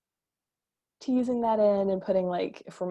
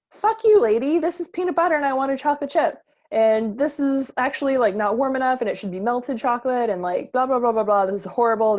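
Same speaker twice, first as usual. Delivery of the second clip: loud, whiny, higher entitled complaint; hammed-up furious brat, much louder and higher; bratty kid rant; 5 semitones higher, 6 dB louder than usual. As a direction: throw a spoiled kid's tantrum at the cookie mom. Voicing an ungrateful bratty kid.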